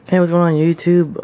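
loud, high YouTube hello; excited greeting. Real, not acted. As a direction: greet the viewers brightly. Vlog greeting to viewers.

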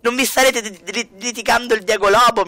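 high, loud scolding. Real, not acted. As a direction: tell the fighting pair off. Scolding two Sims arguing.

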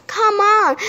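high-pitched excited invitation; thrilled storybook character voice; eager urging. A narrator's reading. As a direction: urge a friend along with glee. Simon urges new partner to play.

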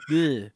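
silly noise through a stuck-out tongue; tongue-out bleh. Shown as a demonstration. Joking about how it gets pronounced, tongue-out bleh.

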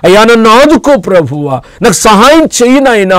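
begging prayer. Shown as a demonstration. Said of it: "అని చెప్పేసి నువ్వు బతిమలాడు".

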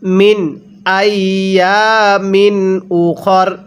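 slow tajweed chant of মিন আইয়ামিন উখর; Quran recitation. Shown as a demonstration. Teacher models the correct reading for students, slow chant. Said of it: "কিভাবে শিখব?".

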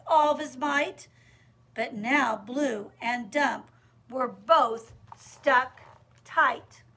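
rhythmic storytime narration with pauses; measured, emphatic read-aloud; picture-book reading. Acted. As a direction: read the rhyme to small children, weighting key words.

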